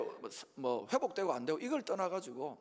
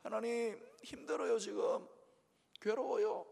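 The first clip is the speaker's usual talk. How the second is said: mock tearful prayer; 4 semitones higher than usual. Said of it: "막 이렇게".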